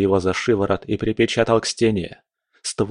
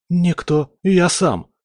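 confident claim; 9 semitones higher, slower than usual. Acted. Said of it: "уверенно заявил он".

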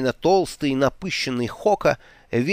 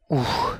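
relieved exhale. Acted. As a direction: sigh out the relief. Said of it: "выдохнул он".

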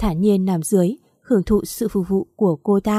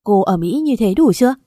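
snapping; 5 dB louder than usual. Acted. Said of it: "rồi quát".

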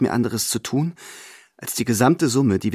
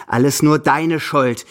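louder, slow, accusing; angry blame; 4 semitones higher, 5 dB louder, slower than usual. Acted. Grandmother blaming her companion for the loss, angrily. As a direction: lay the blame on him, deliberately. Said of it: "fällt sie wütend über mich her".

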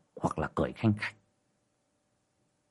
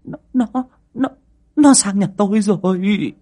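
higher, stuttering terror; stammering in fright; 11 semitones higher, 5 dB louder than usual. A narrator's reading. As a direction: stumble over the word in shock. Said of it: "ú ớ". (ú ớ lắp bắp, giọng cao vì sợ)

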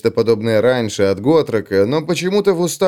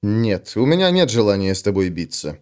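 patient; 4 semitones lower than usual. Acted. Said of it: "терпеливо ответил Феликс".

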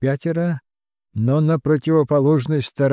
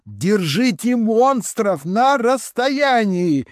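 high, slow battle command; shouted order; 9 semitones higher, slower than usual. A narrator's reading. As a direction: bark it at the defenders. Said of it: "крикнул я".

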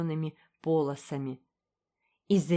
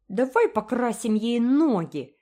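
higher, louder mischievous cry; gleeful shout; 6 semitones higher, 5 dB louder than usual. A narrator's reading. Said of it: "крикнул Джеральд". (радостно крича)

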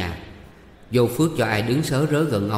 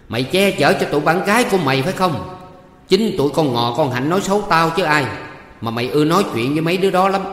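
loud, high, furious accusations; enraged aunt's tirade; angry yelling; 5 semitones higher, 5 dB louder than usual. A narrator's reading. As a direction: berate the niece at full volume. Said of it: "Tiếng quát tháo của bà Hương".

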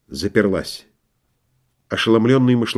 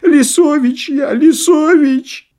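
very high, drawn-out terrified wail; panicked cry; 4 dB louder, slower than usual. A narrator's reading. Vasilisa at the door begging to be let in, terrified wail. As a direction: beg in terror, pitched way up. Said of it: "вскричал силуэт".

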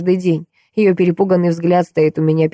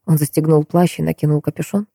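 plain reading voice

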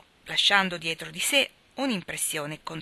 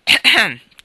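pointed throat clearing; 4 semitones higher, 16 dB louder than usual. Acted. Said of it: "tossì la zia Carol sottovoce".

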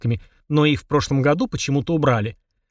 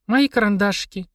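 a touch of plaintive sighing; sad sigh; 6 semitones higher than usual. A narrator's reading. Polina mourns her eaten pencils, sighing sadly. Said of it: "грустно вздохнула она".

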